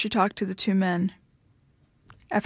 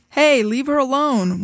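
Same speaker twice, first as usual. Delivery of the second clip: half-hearted call, pitched higher; lackluster yell; 5 semitones higher, 3 dB louder than usual. A narrator's reading. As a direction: call it out without much force. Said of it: "one of the men yelled".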